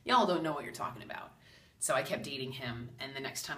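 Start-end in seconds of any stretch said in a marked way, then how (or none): 0.0-1.3 drawn-out high "Dude" then dismissive; exasperated protest. Retold or imitated. Arguing with her guides about a boyfriend, exasperated. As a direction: brush off the warning with a whiny "Dude". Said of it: "And I'm like".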